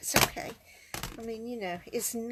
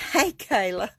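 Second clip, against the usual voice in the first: loud call across the room; 9 dB louder than usual. Real, not acted. Crafter calling out to Kayla mid-demo, loud call.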